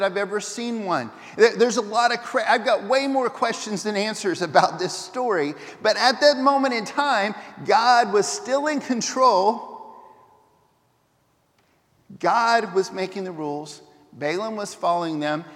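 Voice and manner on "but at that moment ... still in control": louder and slow, each word weighted; preacher pressing the key line slowly; emphatic slow point. Real, not acted. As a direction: drive home God still in control.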